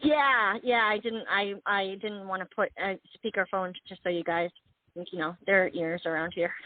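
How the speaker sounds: talking through a handheld phone; phone speaker. Real, not acted. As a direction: voice over a phone line. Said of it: "I have to hold the phone in my ear".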